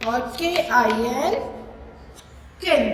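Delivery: letters spelled very slowly, then the word; slow spelling out. Shown as a demonstration. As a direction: model the blending slowly for children. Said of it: "इन।". (बच्चों के लिए अक्षर धीरे-धीरे जोड़कर पढ़ना)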